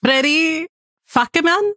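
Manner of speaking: put-on "Freddie fuck a man?" in a mild Spanish accent, rising; a hint of Spanish accent on "Freddie fuck a man?"; light Spanish accent. Cohost asked to read the name with a Spanish accent. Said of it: "say it with a Spanish accent".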